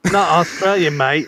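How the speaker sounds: lightly British "mate", vowel as in "late". Shown as a demonstration. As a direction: say "mate" as a casual British mayt. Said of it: "No, just British".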